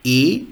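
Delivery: A said as the single umlaut vowel; A umlaut sound. Shown as a demonstration. Teacher introducing three umlauts, A umlaut sound. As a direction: model A as a drawn-out vowel. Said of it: "which is actually A".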